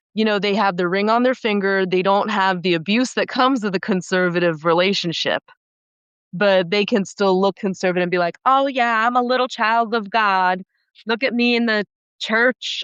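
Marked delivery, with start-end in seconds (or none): 8.4-12.8 clumsy Southern drawl, high and slow. Mimicking what conservative-looking women would say, attempting a southern accent. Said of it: "I'm trying to do a Southern accent".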